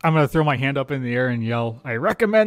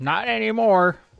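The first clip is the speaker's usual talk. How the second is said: loud yelling, pitched much higher; 9 semitones higher than usual. Player in a tabletop game yells back at the town crier, yelling. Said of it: "I'm gonna yell".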